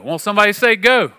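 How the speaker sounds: high, loud pulpit prompt; fired-up preacher egging on the crowd; call and response. Acted. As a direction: rouse the room to answer back.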